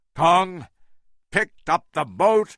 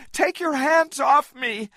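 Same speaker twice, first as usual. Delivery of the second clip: angry shout; 13 semitones higher than usual. A narrator's reading. Anne fighting Jack's grip, a high angry shout. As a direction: throw it at him angrily. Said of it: "she shouted angrily".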